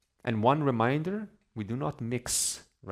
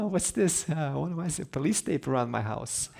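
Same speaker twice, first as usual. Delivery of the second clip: giddy delight; 5 semitones higher than usual. Retold or imitated. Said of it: "he's so happy".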